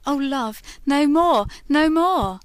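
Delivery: loud, high cry of pain; anguished cry. Acted. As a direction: cry out at the memory of the fire. Lady cries out at burning.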